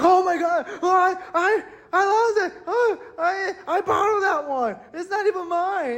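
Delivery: very high, whimpering panic; hammed-up stammering alarm; imitated freak-out. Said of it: "he was freaking out".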